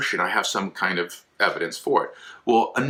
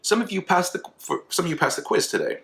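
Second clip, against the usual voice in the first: teacher announcing; 10 semitones higher than usual. Pretend. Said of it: "I'm your teacher".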